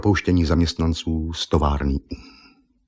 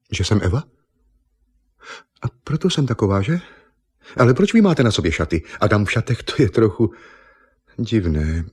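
lightly voiced young woman, higher and puzzled; a hint of a bewildered beauty queen; Miss Nippon; 3 semitones higher than usual. Miss Nippon puzzled by Argon, lightly voiced higher.

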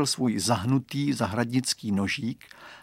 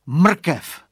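raised, loud exclamation; mildly excited storybook call; exclaiming; 5 semitones higher, 7 dB louder than usual. A narrator's reading. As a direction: announce a sudden bright idea.

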